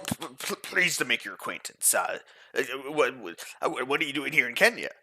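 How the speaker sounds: nervous, stuttering burly man caught off guard; flustered stammer. Acted. Flustered character startled by strangers.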